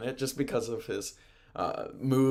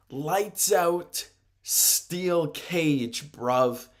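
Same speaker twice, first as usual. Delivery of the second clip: loud, raised promo call-out; emphatic mic-challenge imitation; mock challenge; 6 semitones higher, 6 dB louder, much slower than usual. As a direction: hammer out the match terms like a wrestler. Quoting a wrestler's challenge on mic.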